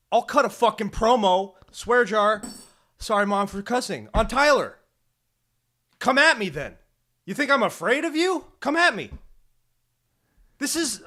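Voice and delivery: loud, high mock wrestler promo shouting; hammed-up heel promo yell; wrestling promo. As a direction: call him out like a pro wrestler hyping a match.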